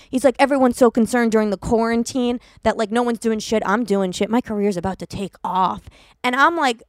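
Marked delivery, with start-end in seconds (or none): 0.4-5.8 lower, laid-back bro voice; a lightly voiced cocky LA guy. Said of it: "like he's about to start a song".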